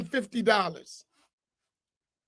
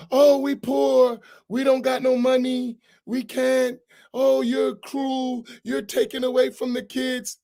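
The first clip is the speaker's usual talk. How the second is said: mock crocodile tears. Imam mimicking poor-mouthing congregants, mock tearful whine. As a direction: imitate fake tears, drawn out and pitiful. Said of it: "with crocodile tears".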